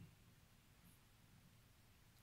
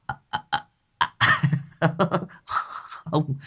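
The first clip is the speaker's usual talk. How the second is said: broken, soft "à, à" stammering; startled stammer; 6 semitones higher, 4 dB quieter, much slower than usual. A narrator's reading. Two startled officers answering their superior, stammering nervously. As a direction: stammer as if caught out, barely getting it out. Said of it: "giật mình lắp bắp".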